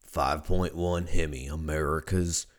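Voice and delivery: low, slow truck-ad drawl; Sam Elliott impression. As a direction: do a deep, unhurried Sam Elliott-style pitchman. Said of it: "I fucking sound like Sam Elliott".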